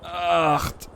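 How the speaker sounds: high, strained counting; doing sit ups. Real, not acted. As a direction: count through sit-up effort. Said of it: "ich mach auch noch schnell ein paar Sit-Ups".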